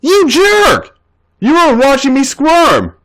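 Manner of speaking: put-on high girlish voice, teasing scold; AJ's playful high-pitched accusation; playful mock outrage. A narrator's reading. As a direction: swat him with a mock-indignant squeal. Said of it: "smacked Seth's shoulder playfully".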